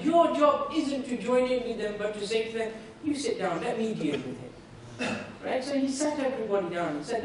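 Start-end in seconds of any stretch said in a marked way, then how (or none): 3.0-4.5 lower, settling voice; calm reassurance. Retold or imitated. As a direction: settle them down calmly, dropping low at the end. Prophet calming his angry companions.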